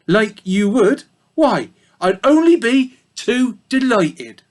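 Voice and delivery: put-on a gossipy old ewe in a thick country accent. A narrator's reading. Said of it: "Sorry about the bad accents".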